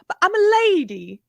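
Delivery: high mock lady voice; hammed-up lady catchphrase; imitating Emily Howard. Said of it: "always gets around to saying".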